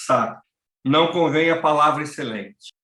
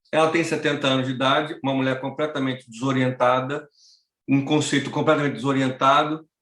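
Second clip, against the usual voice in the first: ordinary talk, nothing marked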